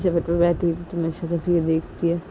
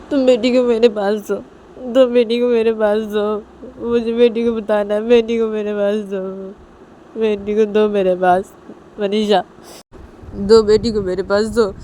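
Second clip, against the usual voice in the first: mildly tearful, slightly raised plea; tearful demand; 3 semitones higher than usual. Acted. Nisha begs Manisha to hand over the baby, mildly tearful. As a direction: beg with a touch of crying. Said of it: "निशा रोते रोते मनीषा को बोलती".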